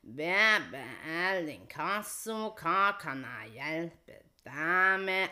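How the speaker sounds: slow, dreary debt collector phone greeting; mocking a bored debt collector answering the phone; depressing monotone. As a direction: drag it out like a joyless debt collector. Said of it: "de høres jo ut som at det er de som er forsinket".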